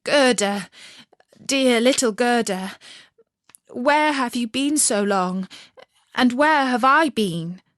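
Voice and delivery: put-on boy crying out to the girl who found him; cried out. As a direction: call her name in tearful wonder. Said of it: "and he cried out".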